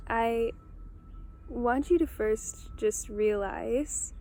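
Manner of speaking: unhurried meditation guide, long pauses between phrases; calm, spacious meditation delivery; guided meditation. Real, not acted. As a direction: guide them gently inward, leaving room after each prompt. Guides listeners through a meditation.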